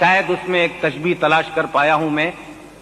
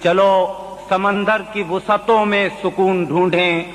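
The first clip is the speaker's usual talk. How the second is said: poetry recitation; 2 semitones higher than usual. Acted. Mushaira recitation of ghazal.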